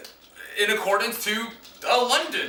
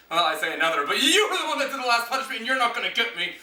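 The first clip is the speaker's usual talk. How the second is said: laughing, rushing it out; quick laughing aside; fast, through laughter; faster than usual. Real, not acted. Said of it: "laughing at himself".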